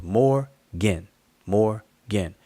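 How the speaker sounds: Morgan split in two syllables; Morgan, then Morgan again, each syllable clear. Shown as a demonstration. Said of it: "So that's two syllables".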